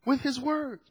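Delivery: "With his words" repeated softly; soft echo. Real, not acted. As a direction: drop the volume on "With his words". Softer echo of the phrase.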